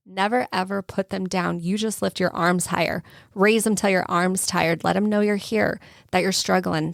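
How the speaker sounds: spoken-word recital of lyrics, steady and heartfelt; reciting song lyrics. Shown as a demonstration. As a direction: recite it like a poem to the audience. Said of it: "I'm gonna go to the words from a song".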